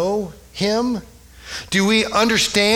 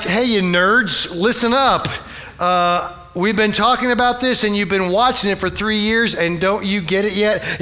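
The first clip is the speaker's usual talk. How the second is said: mildly exasperated mock telling-off; irritated; 2 semitones higher than usual. Preacher as Jesus scolding the nerds, playfully irritated. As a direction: call them to attention, a touch fed up. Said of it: "I'm getting irritated at this point".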